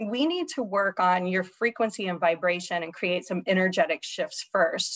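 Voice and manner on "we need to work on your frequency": plain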